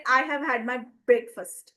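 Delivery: "breakfast" with BREAK stressed and fast said quickly. Shown as a demonstration. Teacher showing students the stress in breakfast. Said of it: "A little stress on the word of break".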